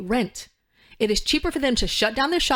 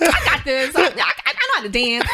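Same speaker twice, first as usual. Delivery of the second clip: put-on cocky Black American girl accent, pitched up and a little louder; 6 semitones higher, 5 dB louder than usual. Recalling herself when young, cocky Black American girl accent. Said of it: "real Black American girl accent".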